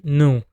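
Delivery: "nu" said with a nasal Portuguese vowel. Shown as a demonstration. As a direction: say "nu" as Portuguese no, through the nose. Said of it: "to say no in Portuguese, you'd say nu".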